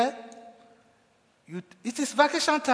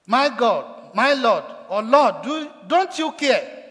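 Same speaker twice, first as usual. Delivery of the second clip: questioning Jesus; 2 semitones higher, 5 dB louder, slower than usual. Retold or imitated. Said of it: "caused her to question Jesus".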